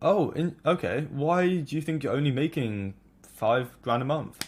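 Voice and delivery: genuinely curious, inquisitive, wondering aloud. Showing how to ask someone why they earn that: curious, inquisitive tone. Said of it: "You do it in a curious, inquisitive tone".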